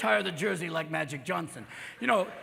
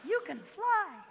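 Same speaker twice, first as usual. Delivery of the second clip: small, hushed tempting voice; quiet little voice; 13 semitones higher, 5 dB quieter, slower than usual. Acted. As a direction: coax softly like a voice in the head. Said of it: "it's a very quiet little voice".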